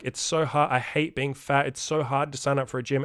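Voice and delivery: half-hearted impression of a complainer; mock complaining. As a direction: imitate someone moaning about excuses. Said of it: "Nobody wants to hear your complaints".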